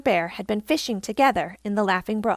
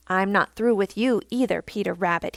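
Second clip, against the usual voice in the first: snarled. Acted. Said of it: "he snarled".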